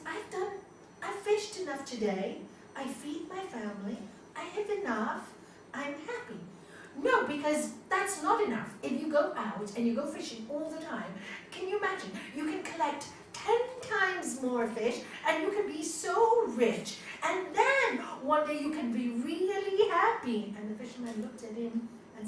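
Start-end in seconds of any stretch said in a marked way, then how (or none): 0.0-6.4 content fisherman. Retold or imitated. Fisherman voiced in story. 7.0-20.5 higher, louder eager businessman pitch; pushy businessman. Retold or imitated. Businessman urging the fisherman, excited and higher.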